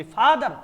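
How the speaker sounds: "फादर" loud, as फा-दर; two-syllable demo. Shown as a demonstration. Teacher confirming two syllables, "फादर" loudly as फा-दर. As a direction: punch out "फादर" in two beats, फा and दर. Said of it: "इसमें टू syllables हो गए".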